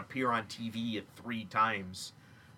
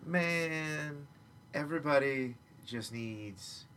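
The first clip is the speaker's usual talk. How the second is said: laid-back mellow hippie, lightly voiced; a groovy peace-and-love dude pleading for chill. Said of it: "your hippie voice".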